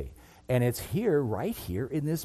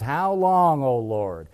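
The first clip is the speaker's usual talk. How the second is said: louder, pleading shout of complaint; Habakkuk's loud cry; 3 semitones higher, 6 dB louder than usual. Retold or imitated. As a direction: cry out at God, demanding an answer. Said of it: "He's screaming and yelling at God".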